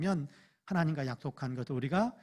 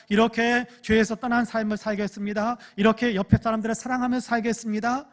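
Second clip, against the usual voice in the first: louder, higher earnest vow to the Lord; earnest prayer voice; 4 semitones higher, 5 dB louder than usual. Acted. Pastor voicing a believer's vow prayer to God, louder and higher. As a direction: pray it out like a fervent believer.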